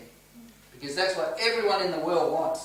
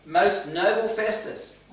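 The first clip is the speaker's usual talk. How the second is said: respectful tone; 3 semitones higher, 6 dB louder, slower than usual. Retold or imitated. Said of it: "in a very respectful tone".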